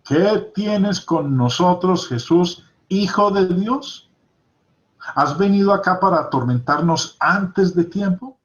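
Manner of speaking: loud dragged-out demonic plea; demons crying out. Acted. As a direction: cry it out like the possessed men. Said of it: "Y clamaron diciendo".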